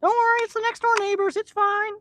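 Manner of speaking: high, quick, lightly put-on voice; lightly voiced, breezy mock comfort to the cat; a hint of mock reassurance. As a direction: brush it off in a sing-song tone.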